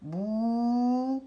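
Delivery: syllable-by-syllable "Bouteille"; split into syllables. Shown as a demonstration. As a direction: sustain each syllable of "Bouteille". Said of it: "Je vais juste dire les mots".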